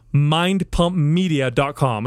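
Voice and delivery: slow, with a punch on pump; slow emphatic plug. Shown as a demonstration. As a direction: spell out the web address slowly, leaning on pump. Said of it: "Again, that's".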